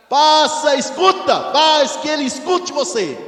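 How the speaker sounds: loud, high rebuke shouted at the devil; preaching shout. Pretend. (repreendendo o diabo aos gritos)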